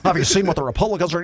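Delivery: fast, lightly voiced conservative radio host; a hint of the indignant talk radio guy; talk show host voice. Comic mocking conservative talk radio, fast mock host. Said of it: "conservative talk show guy ... voice right in here".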